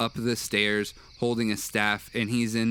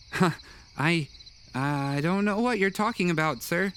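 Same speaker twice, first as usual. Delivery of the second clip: put-on higher, hesitant kid voice; sheepish boy; 7 semitones higher than usual. Boy wizard dodges Grok's question, higher sheepish voice. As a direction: squirm out of it like a caught child. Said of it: "Merlin kind of looks sheepish and says".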